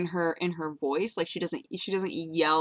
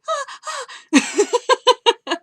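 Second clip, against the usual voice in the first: imitated excited yelling; 8 dB louder than usual. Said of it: "she was just like".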